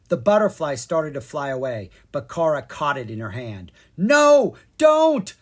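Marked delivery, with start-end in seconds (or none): 4.0-5.3 loud, high-pitched shout; urgent, alarmed yell; panicked cry. A narrator's reading. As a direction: cry out to stop them. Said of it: "Leon cried".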